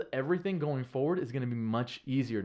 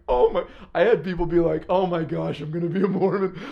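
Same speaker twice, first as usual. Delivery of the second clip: excited converts; 4 semitones higher, 9 dB louder than usual. Retold or imitated. Converts' joyful reaction retold.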